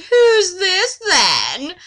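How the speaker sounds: high, very slow, loud query; Gandalf voice. Acted. Gandalf asking who Laura is, slow and loud. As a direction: drag it out loudly as Gandalf. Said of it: "I'm going ever with the voices here".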